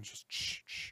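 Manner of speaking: breathy shh, barely voiced; shushing whisper. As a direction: hush him gently. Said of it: "Just be quiet".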